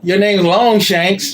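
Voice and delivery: slow, high mock-Scottish declaration; hammed-up Scottish movie hero; Scottish accent. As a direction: stretch it out in bad Scottish. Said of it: "my Scottish sucks".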